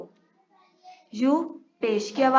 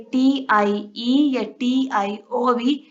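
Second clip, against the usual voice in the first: slow spelled letters; 4 dB louder, much slower than usual. Shown as a demonstration. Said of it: "का sound देते हैं".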